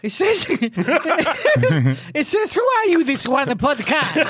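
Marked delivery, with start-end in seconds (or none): 2.5-4.2 hammed-up Italian accent; comic Italian-accented English; Giacomo Agostini. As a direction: play a baffled Italian, mock-indignant. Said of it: "you need to translate this one".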